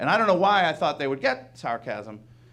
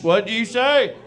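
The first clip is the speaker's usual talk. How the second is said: higher, louder threatening question; menacing challenge; 7 semitones higher, 6 dB louder, much slower than usual. Retold or imitated. Angry fan challenging the comic, louder. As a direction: demand it back with menace. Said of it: "I could hear shotguns being cocked".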